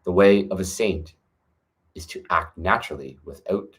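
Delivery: put-on calm, measured recitation of an old text; scripture reading. Reading the Tao Te Ching aloud to viewers, calm measured recitation.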